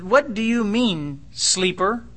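a hint of a gruff captain waking Jonah. Captain waking Jonah in the storm, lightly voiced. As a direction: rouse the sleeper, half-amused. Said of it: "the captain came to him and said".

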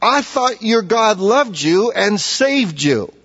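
mocking taunt. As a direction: taunt him like a mocker. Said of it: "The mockers say".

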